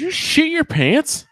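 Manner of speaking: very high, slow shocked yelp; startled shriek. Real, not acted. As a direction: shriek it in surprise. Startled by friend at window.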